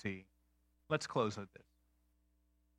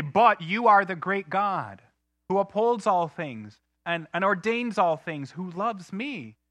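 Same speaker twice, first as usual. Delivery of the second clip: slow prayer; 5 semitones higher, 6 dB louder, slower than usual. Pretend. Voiced prayer, slowed.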